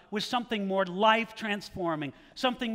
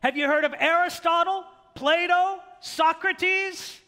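much higher, louder, pompous lisping villain; Vizzini impression; 8 semitones higher, 5 dB louder than usual. Preacher quoting Vizzini to his congregation, pompous and high. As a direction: puff up like an arrogant genius listing names. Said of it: "Vinzini replies by saying".

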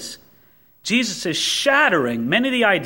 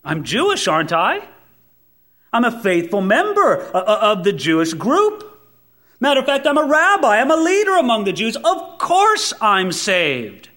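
Nicodemus, self-assured; 3 semitones higher than usual. Retold or imitated. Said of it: "Nicodemus would have said".

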